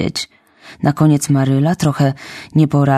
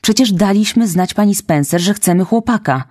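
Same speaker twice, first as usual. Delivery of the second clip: insisting; 5 semitones higher than usual. Acted. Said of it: "upierała się Maryla".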